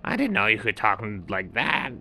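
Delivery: high heron voice; amused bird, pitched high; blue heron. A narrator's reading. Heron laughing at the seal's new voice, high. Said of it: "And the blue heron said".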